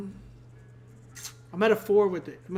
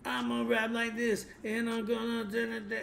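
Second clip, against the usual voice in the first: mock monotone rapper; 3 semitones higher, 4 dB quieter than usual. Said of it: "not just sounding so monotone".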